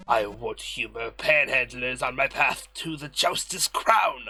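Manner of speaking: haughty villain voice. Acted. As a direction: look down on the peasants. Reads character dialogue in voices.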